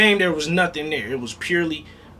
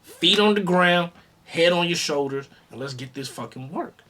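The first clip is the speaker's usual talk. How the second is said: scrum coach instructing; 3 semitones higher than usual. Retold or imitated. Scrum coach tells a young player, firmly instructing. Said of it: "Just like the scrum coach told Ox".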